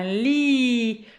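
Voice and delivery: "Li" with L and i drawn out; smiled ending. Shown as a demonstration. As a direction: smile through the long end of "Li". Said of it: "Je souris à la fin". (« Li » souriant, le i allongé)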